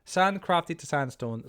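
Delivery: drawn out while thinking it through; slow, working it out. Real, not acted. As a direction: slowly sound out each step.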